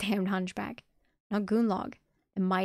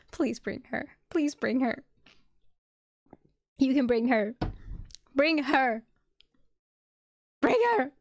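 urgent plea climbing to a high, loud yell; begging, building to shouting; 5 semitones higher, 5 dB louder than usual. Real, not acted. Reader begging the story to bring her, plea building to a shout. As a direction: start pleading, end yelling it.

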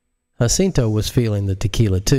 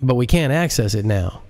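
nervous director; 4 semitones higher than usual. Acted. Director explains.

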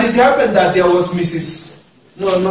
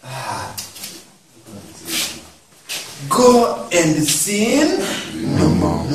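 very slow and tender; slow gentle Jesus voice; 8 semitones lower, 6 dB quieter, much slower than usual. Retold or imitated. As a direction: draw it out softly, coaxing a sinner. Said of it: "But Jesus is saying".

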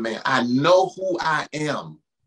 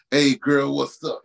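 mock pickup line; 2 semitones lower than usual. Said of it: "nobody talks like that".

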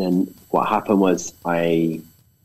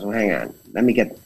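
put-on American accent; faster than usual. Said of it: "sorry for my American accent".

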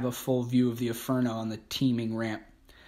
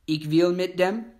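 higher, louder choked wail of the plea; still wailing; 6 semitones higher, 4 dB louder than usual. A narrator's reading. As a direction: cry the broken plea from the truck. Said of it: "he still wails".

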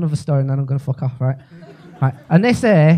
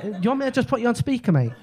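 sarcastic quip; 6 semitones higher, 5 dB quieter, faster than usual. Retold or imitated. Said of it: "I'm like".

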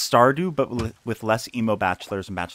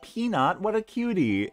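put-on high, cooing baby talk to a pet; cooing over a cat; 9 semitones higher than usual. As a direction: coo it like praising a cute pet. Gushing over cat name.

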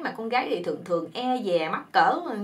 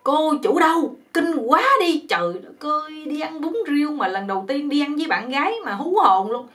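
angry call; 4 semitones higher than usual. Retold or imitated. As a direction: shout for the owner in disgust. Boyfriend shouting for the owner.

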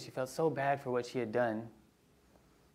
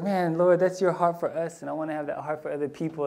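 moved prayer; 3 semitones higher than usual. Retold or imitated. Preacher retelling his moved prayer to God. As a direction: cry out, deeply moved. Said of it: "I was like".

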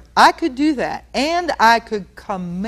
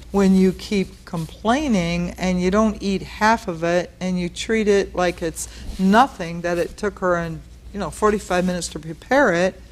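gentle reasoning. Retold or imitated. Parent talking gently to a nineteen-year-old about mom's meal. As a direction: reason kindly, not a command. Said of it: "I can talk like that to a, a eighteen, nineteen-year-old".

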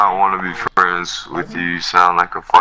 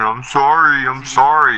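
mocking whine; 4 semitones higher than usual. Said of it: "you're singing on here".

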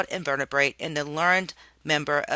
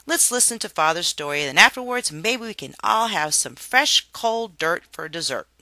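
enthusiastic; 3 semitones higher, 4 dB louder than usual. Acted. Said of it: "chimed in enthusiastically".

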